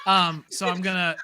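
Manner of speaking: giggling through the words; laughing. Real, not acted. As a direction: laugh while starting to talk. Laughs at the warning.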